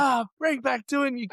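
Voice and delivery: high, dragged-out mock outrage; acted furious wail, slowing down; livid rant. Crashed driver blaming everyone but himself, acted livid. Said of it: "I'd be just livid".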